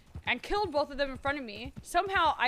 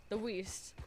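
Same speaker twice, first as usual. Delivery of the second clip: Western accent; 2 semitones lower, 6 dB quieter than usual. Shown as a demonstration. Testing the character accent on the word West. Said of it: "sounds like a different accent".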